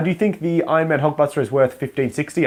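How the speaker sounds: ordinary delivery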